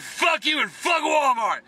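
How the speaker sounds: slow shouted curse; retold shout. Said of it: "I said".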